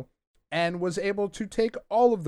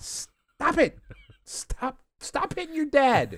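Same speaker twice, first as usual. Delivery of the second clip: much higher, half-laughing plea to stop; mock pleading; 12 semitones higher, slower than usual. Reader pleading with the turtles attacking Splinter, high mock dismay. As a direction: beg them to stop, in half-joking dismay.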